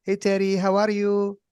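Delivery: high, loud cheery greeting; imitating the neighbor's happy hello. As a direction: sing it out like a happy old lady. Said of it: "she's happy".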